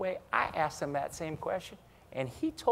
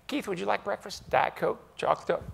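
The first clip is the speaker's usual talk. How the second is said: Chambers imitation; 5 semitones higher than usual. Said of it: "So there's the Chambers imitation".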